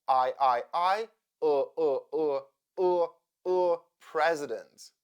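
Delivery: I repeated, then UH repeated, into president; schwa drill. Shown as a demonstration. Teacher drilling the unstressed second syllable of president, schwa drill. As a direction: drill I turning into a neutral UH before president. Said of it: "I sounds like uh".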